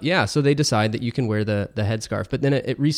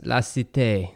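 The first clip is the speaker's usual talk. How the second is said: French accent; slower than usual. Shown as a demonstration. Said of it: "No, that's more Spanish".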